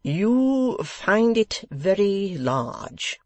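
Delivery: puffed-up host at dinner; spaciously. A narrator's reading. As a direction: spread every word out grandly.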